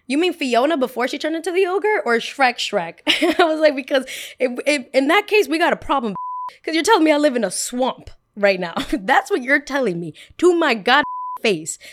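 high, loud, laughing comeback; firing back at boys calling her Shrek; laughing retort. Retold or imitated. High, loud, laughing.

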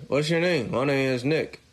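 talking without moving lips; ventriloquist voice. Shown as a demonstration. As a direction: lips barely moving, like a dummy act. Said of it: "Talk, talk without moving your lips".

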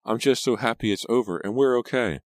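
high, emotional gush; acted happy outburst; overjoyed relief.

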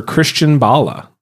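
"Bala" with an added accented ending; accent on final E. Real, not acted. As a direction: say "Bala" as if Bale's E were accented. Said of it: "I just put an accent on the E".

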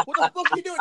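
high, loud outraged yell; mock angry teammates. Teammates yelling at John for killing them, loud.

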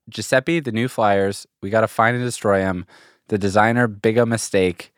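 put-on reluctant, half-suppressed Italian accent; a hint of stereotypical Italian pizzeria owner's accent; slight Italian accent. Reading a joke tweet, trying not to do it, slight Italian accent. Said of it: "you, like, can't read it without doing the accent".

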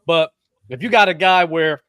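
talking through hiccups; hiccuping. Real, not acted. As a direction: hiccup breaking the words. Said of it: "sorry, I keep hiccuping".

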